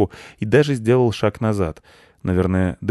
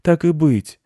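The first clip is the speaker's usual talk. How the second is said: put-on lofty, higher boy's voice; self-important; 8 semitones higher, 4 dB louder, slower than usual. A narrator's reading. Boy wizard relenting to the chairman, self-important. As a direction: concede grandly, a little pompous. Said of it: "важно кивнул мальчик".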